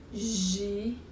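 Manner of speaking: "Girafa" split as gi, ra, fa with long gaps; slow, separated three-beat "Girafa"; syllable by syllable. Shown as a demonstration. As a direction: count out each beat of "Girafa". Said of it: "Três sílabas".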